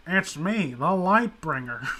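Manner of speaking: lightly voiced slow menacing visitor; a hint of a grand villain announcing himself. Friend hams up a visitor at the door in a slow villain voice. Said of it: "I get a knock on the door like".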